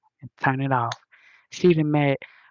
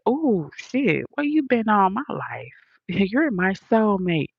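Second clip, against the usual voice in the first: mock smitten delight; 5 semitones higher than usual. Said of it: "You be like".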